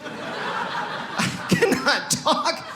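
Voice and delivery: very slow, high, strained mock-impaired speech; mock stroke speech. Telling friends what Germany was like, mock stroke voice. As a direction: drag the words out as if unable to form them. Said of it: "like I've had a stroke".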